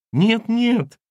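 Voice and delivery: high lamenting no, no; a touch of a wail, pleading. A narrator's reading. Housekeeper lamenting to the family, high wail. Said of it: "неожиданно запричитала Валентина".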